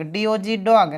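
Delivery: "डॉग" closed on a g sound, after its letters; final hard G. Shown as a demonstration. Teacher spelling an example, "डॉग" ending on hard g. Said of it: "तो हमेशा उच्चारण ग होता है".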